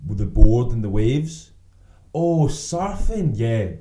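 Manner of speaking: high, slow, drawn-out oh; mock dawning realisation. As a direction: act out the sudden penny drop.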